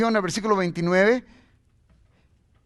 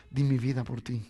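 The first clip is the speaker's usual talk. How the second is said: tag; 4 semitones lower, 3 dB quieter than usual. Acted. Voices Jesus affirming worth.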